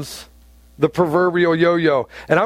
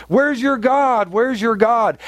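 higher, jeering voice of the scoffers; mocking taunt; 4 semitones higher, slower than usual. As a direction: throw the question at him like a jab. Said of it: "they keep attacking".

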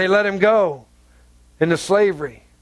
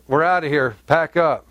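gruff husband; 5 semitones lower than usual. Retold or imitated. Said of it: "And Abraham said".

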